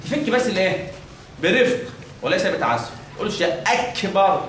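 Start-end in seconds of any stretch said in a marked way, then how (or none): 2.9-4.4 slow أكبر with a forced, bounced kaf; wrong forced kaf. Shown as a demonstration. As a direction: push the kaf of أكبر too hard. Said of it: "بتعمل كده".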